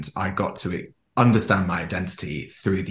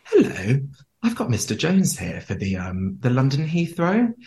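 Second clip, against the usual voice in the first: fake phone call; 3 semitones higher than usual. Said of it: "and you go".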